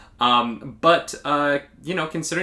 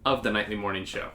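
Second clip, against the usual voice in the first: radio announcer voice. Pretend. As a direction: boom it out like morning radio. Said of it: "I'm doing a radio announcer voice".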